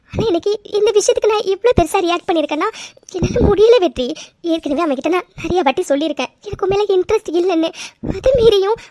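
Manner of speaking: upset, voice catching with sobs; tearful complaint. Acted. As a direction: justify yourself through held-back tears. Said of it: "please அழாதீங்க".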